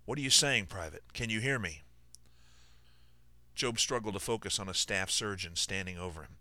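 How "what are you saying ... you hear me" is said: raspy firm voice. Acted. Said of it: "raspy and firm jaunt".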